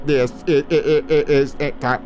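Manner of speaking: stuttering glitchy robot voice; malfunctioning robot stammer. Shown as a demonstration. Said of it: "I'm doing robot voices".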